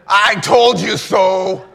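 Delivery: drawn-out gloating I told you so; smug told-you-so. Pretend. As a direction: rub it in slowly. Mocking parent to kids.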